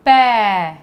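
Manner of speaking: "पै" said loud and clear as "pai"; clear teaching demo. Shown as a demonstration. Teacher asks kids to repeat, loud clear demo. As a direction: sound out "पै" for the class, open and full. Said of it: "मेरे साथ साथ बोलिए".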